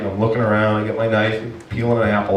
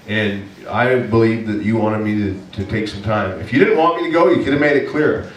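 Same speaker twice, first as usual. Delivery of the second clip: mild mock rant. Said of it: "just yelling in my tent".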